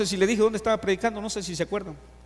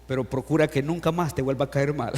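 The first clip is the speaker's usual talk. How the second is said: laughing; 3 semitones lower than usual. Real, not acted. Punchline while laughing.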